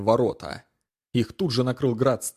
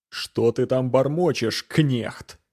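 growled; slower than usual. Acted. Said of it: "рыкнул Гуга".

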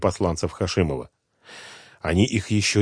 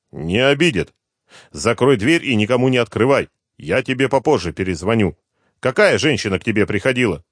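high, loud, pressing reassurance; calm her down while frightened yourself; urgent reassurance; 4 semitones higher, 4 dB louder than usual. Acted. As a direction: son urgently calming his panicked mother. Hero instructing mother.

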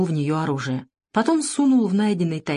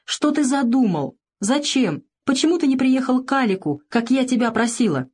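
higher, distressed questions; tearful pleading; 7 semitones higher than usual. A narrator's reading. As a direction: plead with him through tears.

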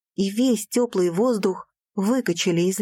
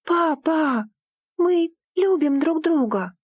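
pleading; 8 semitones higher, slower than usual. Acted. Daughter to father, an urgent plea. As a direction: insist on love to her father.

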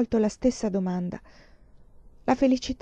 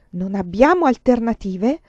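louder pleading echo of her words; 3 semitones higher, 6 dB louder than usual. Acted. Lover pleads against her resignation, louder. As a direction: throw her words back at her, begging.

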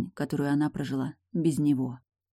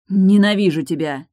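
loud, higher outburst in his face; blurted out; 4 semitones higher, 10 dB louder than usual. Acted. Woman blurting out hatred at her lover, loud. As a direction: fling it at him. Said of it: "выпалила Тильда ему в лицо".

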